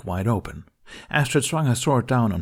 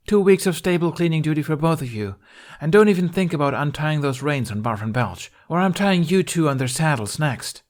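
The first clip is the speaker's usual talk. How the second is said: loud, higher scolding order; scolding the twins; 6 semitones higher, 4 dB louder than usual. A narrator's reading. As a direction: lay down the punishment sternly.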